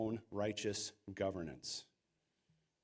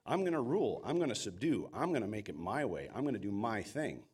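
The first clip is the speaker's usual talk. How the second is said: hammed-up self-important bragging; mock arrogant boast. Pastor mocking a selfish ruler, cocky boast.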